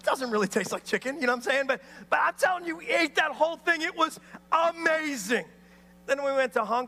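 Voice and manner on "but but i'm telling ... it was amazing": preacher's excited punch; emphatic. Real, not acted. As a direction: sell how amazing it was. Preacher exclaiming about the meal.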